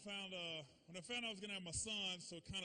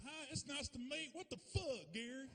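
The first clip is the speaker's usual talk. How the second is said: higher, polite turning to shock; greeting breaks into a swear; mom shocked; 7 semitones higher than usual. Retold or imitated. Mom meeting the girlfriend, polite then shocked. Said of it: "She goes".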